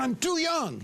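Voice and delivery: high-pitched indignant protest; upset. Acted. Upset man complaining to his counselor, indignant. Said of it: "so upset".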